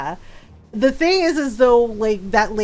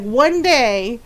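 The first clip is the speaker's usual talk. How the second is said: restrained warning, imitating a teacher; lightly voiced teacher's threat; mild retold threat. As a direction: hold the mock threat back. Glaring teacher's threat, first take.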